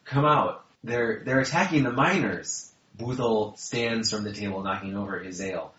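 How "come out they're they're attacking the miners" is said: high, loud urgent dwarf; ridiculously high voice. Acted. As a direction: squeak out the alarm in a high voice. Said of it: "how ridiculous your voice is in that".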